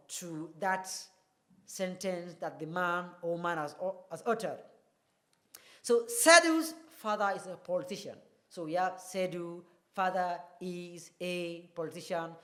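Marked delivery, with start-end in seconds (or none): 5.8-8.1 Sedu's pushed up, rest falls; stress on Sedu's. Shown as a demonstration. Teacher rereading sentence, Sedu's stressed. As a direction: lean on Sedu's. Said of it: "the stress word there is Sedu".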